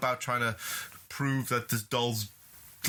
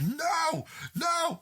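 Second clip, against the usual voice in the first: high-pitched mock cry of protest; hammed-up high wail; acted child's refusal; 13 semitones higher than usual. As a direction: play a possessed kid refusing. Voicing possessed child refusing mother.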